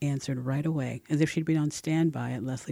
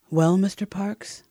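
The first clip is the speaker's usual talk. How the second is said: emphatic, slow opener; 6 semitones higher, 8 dB louder, slower than usual. A narrator's reading. Bold final pitch.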